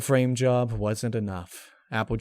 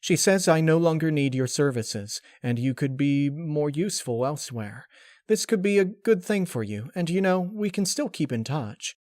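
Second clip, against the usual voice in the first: lightly raised, brisk unicorn voice; Twilight's voice; 5 semitones higher than usual. Acted. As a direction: break the news with feigned regret. Narrator voices imagined Twilight.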